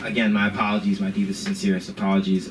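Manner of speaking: low, over-earnest mock apology; full apology mode. Teacher placating the offended student, low formal apology. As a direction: lay on formal contrition. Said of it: "I'm at full apology mode".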